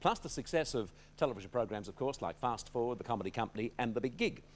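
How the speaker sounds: TV host introduction. Acted. Host introduces next guest.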